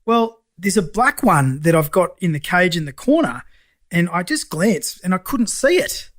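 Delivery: high, slow, drawn-out retold confession; hesitant client. Mechanic telling lender the cage looked empty, high and hesitant. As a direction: imitate the snake owner slowly owning up.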